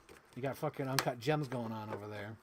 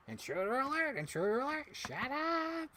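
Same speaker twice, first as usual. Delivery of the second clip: alarm shout; 11 semitones higher than usual. Pretend. Same alarm bit repeated.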